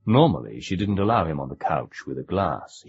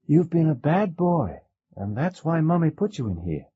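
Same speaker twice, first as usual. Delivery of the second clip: scolding mother; 12 semitones higher than usual. A narrator's reading.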